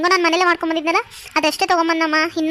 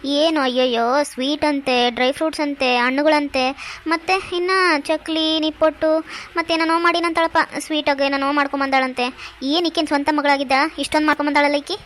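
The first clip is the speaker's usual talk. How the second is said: sarcastic grumbling. Acted. Jealous onlooker grumbles about all the sweets brought, mocking. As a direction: grumble a scornful list under the conversation.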